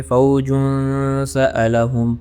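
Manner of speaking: فوجن سألہم very slow, with a held, muted nasal; ikhfa applied. Shown as a demonstration. Teacher recites for students with ikhfa, very slow. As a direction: draw out فوجن سألہم, hiding the nasal sound. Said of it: "یہاں پہ اخفا apply ہو گیا".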